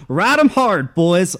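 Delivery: high, loud whoop through laughter; laughing cheer. Acted. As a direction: holler it out laughing with glee. Pete cheers while riding.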